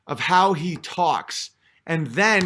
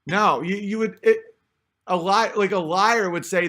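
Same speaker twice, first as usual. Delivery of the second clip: normal talking voice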